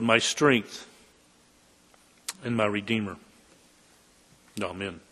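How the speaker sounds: prayer. Real, not acted. Preacher asks God to accept the words, praying.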